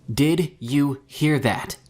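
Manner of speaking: slow, high screamed question. A narrator's reading. Mika screaming into the radio, panicking. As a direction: yell it into the radio. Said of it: "Mika screamed into the radio".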